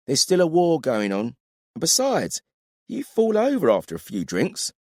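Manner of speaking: brisk no-nonsense woman warrior voice; curt female soldier, unimpressed; stern woman warrior. Acted.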